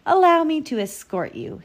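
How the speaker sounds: high, loud gallant offer; smooth-talking storybook wolf; charming wolf. A narrator's reading. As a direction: play the courteous villain.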